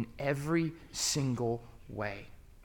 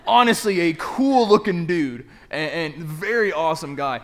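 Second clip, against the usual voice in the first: higher, loud and gushing; excited praise; 6 semitones higher, 11 dB louder than usual. Real, not acted. Preacher raving to the crowd about his professor, excited. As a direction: rave about him, much higher and louder.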